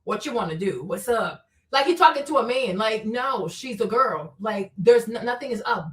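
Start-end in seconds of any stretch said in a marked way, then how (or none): 0.0-1.5 low, softer imitation of the man; mocking his talk. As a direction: mimic his lines, dropped low and quieter. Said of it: "Who talks like that?".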